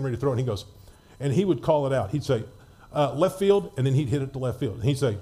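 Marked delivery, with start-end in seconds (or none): 3.1-3.7 called out loud and high; calling out. Retold or imitated. Teammate calling his shot, loud call. Jimmy calls his hit.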